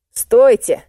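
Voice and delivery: loud high call; shouted stop. Acted. Boy calls teacher back.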